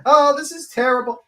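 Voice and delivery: loud, high, drawn-out mock wail; mock crying. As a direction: whine it like an exaggerated victim. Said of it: "She would be crying like fucking no one else".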